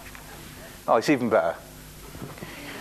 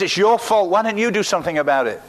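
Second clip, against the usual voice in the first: raised, higher voice, pinning the blame; accusing outcry; 4 semitones higher, 3 dB louder than usual. Acted. Widow blaming the prophet for her loss, loud accusation. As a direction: throw the blame at them. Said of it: "cried out to Elisha".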